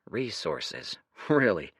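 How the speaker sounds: unimpressed under the breath; dry aside. Acted. Dorian's dry inner aside.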